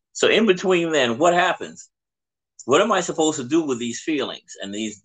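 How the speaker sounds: a hint of a puzzled child asking for guidance; lightly voiced teenager. Fourteen-year-old asking what to do until marriage, lightly voiced teen. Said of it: "the poor child said".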